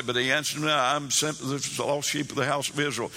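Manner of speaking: mildly hurried, cursory Bible reading; reading straight through. Shown as a demonstration. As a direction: run through the verse without dwelling on it. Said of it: "right straight through this".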